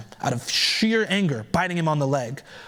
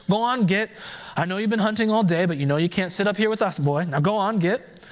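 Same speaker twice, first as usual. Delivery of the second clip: shooing farmer's wife; 5 semitones higher than usual. Acted.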